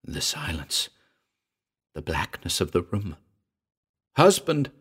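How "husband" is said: high, sharp exclamation; shocked cry. A narrator's reading. Patou hearing of Myra's husband, shocked cry. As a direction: cry out in disbelief. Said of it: "cried Patou".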